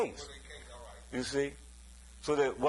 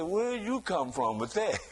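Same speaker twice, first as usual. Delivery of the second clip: mama laughing. Retold or imitated. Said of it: "She said".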